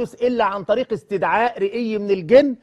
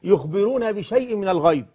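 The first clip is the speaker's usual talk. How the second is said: slow solemn quoting; much slower than usual. Acted. Quotes hadith and Quran recitation-style.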